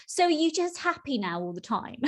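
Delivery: a light sing-song dig; sceptical tone. Retold or imitated. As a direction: imitate someone half-teasing. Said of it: "it typically sort of kind of is in that tone".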